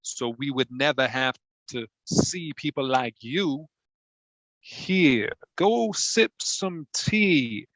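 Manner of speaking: put-on Bill Clinton taunts the British judge in a Southern accent; Southern politician. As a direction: sneer at the Brit in a Southern twang. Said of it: "my name's Bill Clinton".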